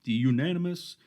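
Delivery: high, loud ring announcer call; boxing announcer. Retold or imitated. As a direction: announce it like a title fight. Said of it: "I started talking like a boxing, uh, announcer".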